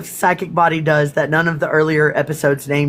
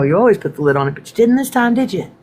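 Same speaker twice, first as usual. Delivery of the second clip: mock scolding; 5 semitones higher, faster than usual. Real, not acted. Scolding herself for the spill.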